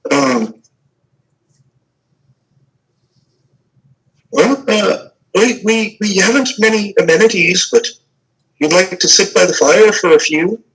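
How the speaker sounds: a lightly voiced shy woman eager to make amends; flustered village woman. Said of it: "she kinda says".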